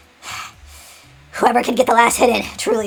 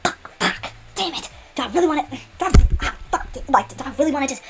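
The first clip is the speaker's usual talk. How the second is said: nervous; 3 semitones higher than usual. Acted. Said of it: "he's nervous and sweaty".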